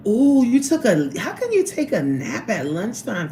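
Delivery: high, loud shocked exclamation; startled outburst at the chat; surprised ooh. Real, not acted. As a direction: gasp it out in disbelief. Shocked at viewer's lunch nap.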